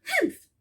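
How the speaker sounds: high sniffy snort; scornful humph. Acted. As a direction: huff with disdain. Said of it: "humphed a voice".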